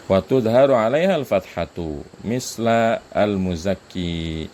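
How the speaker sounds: measured recitation of a grammar verse; reciting Arabic text. Shown as a demonstration. Teacher reciting the Arabic rule to students, measured and slow. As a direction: read the Arabic line slowly, like a text recital.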